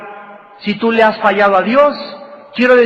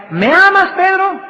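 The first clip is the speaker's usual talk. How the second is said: much higher, pressing question on Pedro; insistent third asking; 9 semitones higher than usual. Retold or imitated. Jesus asks Peter a third time, much higher and pressing. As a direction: push the third asking up high. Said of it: "le vuelve a decir por tercera vez".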